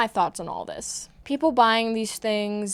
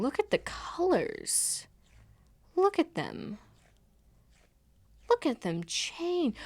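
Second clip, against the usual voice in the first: mesmerized whisper; 6 semitones higher, 5 dB quieter, slower than usual. Pretend. Mesmerized by the toy.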